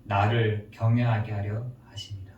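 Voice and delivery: low-pitched, measured quotation; God's answer. Acted. God answers Solomon through his conscience, low solemn answer. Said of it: "양심의 말하기를 뭐라고 하는지".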